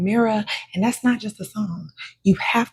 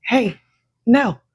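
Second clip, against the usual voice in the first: emphatic refusal. Acted. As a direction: shut the request down hard. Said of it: "never saying".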